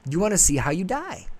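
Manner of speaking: Zeus eagerly offering a dark deal, mock enthusiasm. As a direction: jump at the chance like a sly salesman. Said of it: "He's like".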